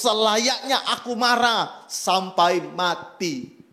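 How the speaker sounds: slow, half-laughing sulky reply; preacher voicing Jonah's reply to God; Jonah sulking. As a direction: give Jonah's stubborn answer. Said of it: "Jawab Yunus".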